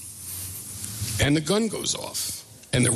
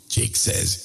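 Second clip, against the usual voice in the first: ordinary delivery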